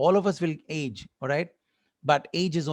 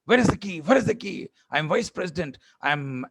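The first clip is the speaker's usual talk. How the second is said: frantic parent searching. Retold or imitated. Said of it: "you make the whole family".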